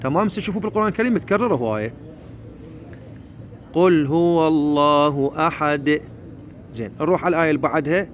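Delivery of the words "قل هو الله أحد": slow, measured chant of a verse; Quran recitation. Shown as a demonstration. Teacher models the verse for learners, slow recitation. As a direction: recite slowly with held vowels and bounced final dal.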